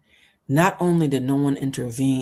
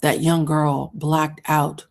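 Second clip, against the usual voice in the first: real anger; slower than usual. Real, not acted. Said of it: "Oh, I'm getting so mad".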